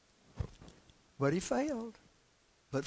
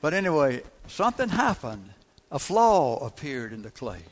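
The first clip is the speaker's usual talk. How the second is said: louder, pushing over the noise; raised preaching voice to carry over the sound trouble; 6 dB louder than usual. Real, not acted. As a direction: project so the back row hears. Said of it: "So I just raised my voice".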